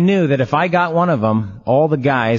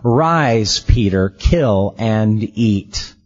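voice of God; 4 semitones lower, much slower than usual. Acted. Voice of God commanding Peter.

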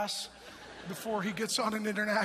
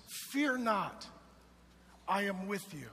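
tender reassurance. Shown as a demonstration. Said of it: "quiet restatement of earlier shout".

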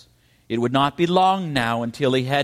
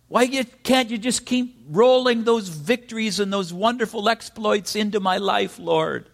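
pleading questions; 4 semitones higher than usual. Acted. Preacher voicing anguished questions.

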